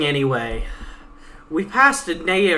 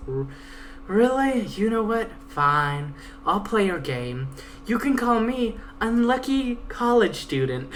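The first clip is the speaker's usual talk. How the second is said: lightly voiced sassy Pegasus, a touch higher; 5 semitones higher than usual. Pegasus taunting her guide, a lightly voiced cocky mare. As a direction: read the Pegasus as a cocky, defiant young mare.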